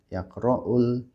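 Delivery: drawn out syllable by syllable with breaks; over-slow classroom demo of Arabic; very slow reading. Shown as a demonstration. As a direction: read it slowly, word by word. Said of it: "pelan-pelan".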